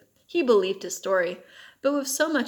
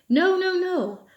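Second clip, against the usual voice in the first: high, loud, slow cry of protest; desperate denial; 9 semitones higher, 5 dB louder, slower than usual. A narrator's reading. Prisoner denying the charge to Uncle Victor, loud slow cry. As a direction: plead your innocence, drawn out and high.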